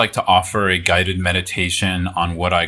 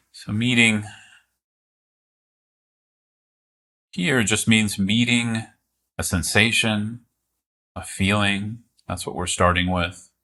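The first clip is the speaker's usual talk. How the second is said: calm, unhurried guiding with long pauses; guided meditation. Real, not acted. Teacher guiding listeners to meet the present moment, calm meditation voice. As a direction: ease listeners into it, leaving space between phrases.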